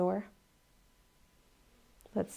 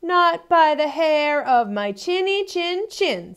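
loud, slow, higher refusal; defiant pig; 7 semitones higher, 9 dB louder, slower than usual. Acted. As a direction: plant your feet as the pig. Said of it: "said the third little pig".

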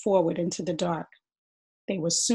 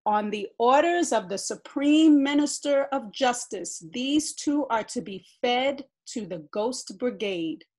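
loud, higher soldier's order; barked; 5 semitones higher, 4 dB louder than usual. A narrator's reading. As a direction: bark the decree. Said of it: "the soldier barked".

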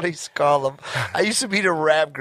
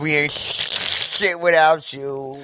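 mock dramatic tribute; 8 semitones higher, much slower than usual. Slow put-on shout-out.

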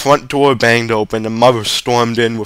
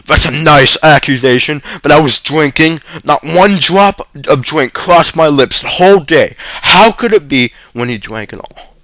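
high whining self-pity; whined; 5 semitones higher, 5 dB louder than usual. A narrator's reading. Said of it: "He whined".

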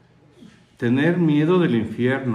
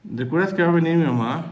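higher, quick coaxing wife; hurried wife; 5 semitones higher, faster than usual. Retold or imitated. Wife telling her husband her mother is coming, higher and quick. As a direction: slip it in fast and sweet.

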